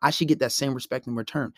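calm boundary-setting. Shown as a demonstration. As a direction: state it evenly, without getting excited. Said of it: "you wanna keep a calm tone".

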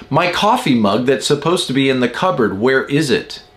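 mildly impatient, pointed husband; retold insistent demand. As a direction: press the point like an annoyed husband. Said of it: "he said it like that".

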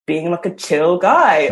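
slipping into an American drawl; American accent. Real, not acted. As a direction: say it with an American twang. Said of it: "Don't do your American accent".

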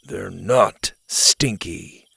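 slow, flat, irritated reply; irritated monotone. Acted. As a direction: drag it out, barely annoyed. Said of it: "with as much irritation as his monotone voice".

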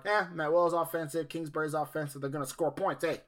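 lightly put-on, bad Italian accent; hint of a hammy Italian accent; terrible Italian accent. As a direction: do a half-hearted mock Italian accent. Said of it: "giving Matt, Neil Brown an Italian accent".

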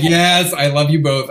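loud, high, overjoyed yes; excited shout. Retold or imitated. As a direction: burst out gleefully. Thrilled acceptance.

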